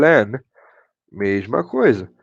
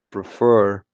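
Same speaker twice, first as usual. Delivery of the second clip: "prefer" with FER emphasized; stress on final syllable; 4 semitones lower than usual. Shown as a demonstration. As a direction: lean on the second syllable of "prefer". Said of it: "ela está na parte final".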